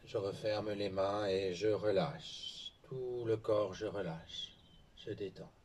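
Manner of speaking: slow, calming exercise instruction; guided relaxation. Real, not acted. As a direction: let the words stretch and settle.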